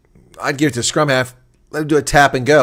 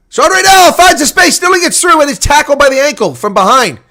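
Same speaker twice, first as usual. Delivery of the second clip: rising excited play-by-play, much higher and louder; excited call; 12 semitones higher, 8 dB louder than usual. Real, not acted. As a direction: call the break like it might score. Breakaway run in live commentary.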